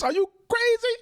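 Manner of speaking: high, slowed incredulous rant; stunned that anyone believes this; exasperated disbelief. Real, not acted. Disbelief at the clip.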